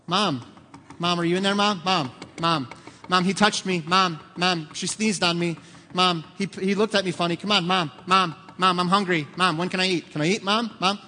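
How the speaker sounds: put-on whiny kids. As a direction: pester mom nonstop like impatient kids. Kids whining at bathroom door.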